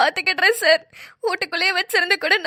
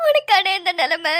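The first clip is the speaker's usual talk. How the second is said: slow weeping. Acted. Sister grieving over injured brother.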